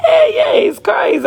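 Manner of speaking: high breathy hiss of a whisper-shout. Real, not acted. Whisper-shouting to her Facebook followers.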